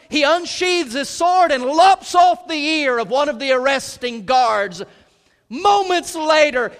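loud, high, climactic preaching; preaching at full force. Acted. Preacher showing how quickly Peter fell, full-force preaching. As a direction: hammer the contrast home.

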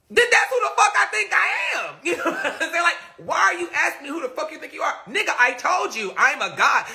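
giggling high and fast; laughing. Real, not acted. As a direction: crack up mid-boast. Laughing while boasting.

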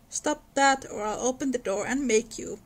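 threatening call. Acted. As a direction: warn her off, mildly threatening. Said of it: "called out the young gentleman in a threatening tone".

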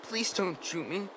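high, soft frightened plea; scared plea. Acted. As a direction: beg him not to shoot, barely aloud. Frightened boy begging not shot.

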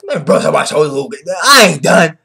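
loud, high defiant yell; defiant shout. Retold or imitated. Luffy shouting back at Caesar, defiant yell.

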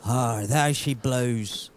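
put-on slow, drawn-out pirate accent; Scottish attempt that slips into pirate accent. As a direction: stretch it out in a mock pirate accent. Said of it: "That's the, like a pirate".

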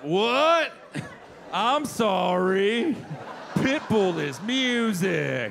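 put-on slow, slurred groggy drunk; drunk Florida. Florida waking from a drunk stupor, slow slurred voice. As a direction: mumble like just waking drunk. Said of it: "woke from a drunk stupor".

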